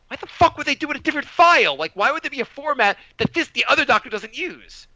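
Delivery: high, exasperated retelling; retold exasperation. Patient grumbling about the doctor's file, exasperated.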